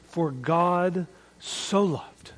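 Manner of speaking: "so" held long and slow; stress on so. Shown as a demonstration. Preacher demonstrating stress on "so" in the verse. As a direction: lean on "so" in For God so loved. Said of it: "Where does the emphasis go?".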